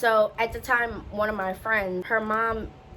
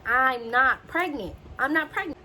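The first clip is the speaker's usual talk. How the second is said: mock inner scream; 4 semitones higher than usual. Patient screaming in her head at nurse, mock exasperation. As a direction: retell screaming it in your head, without full volume. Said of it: "I'm screaming".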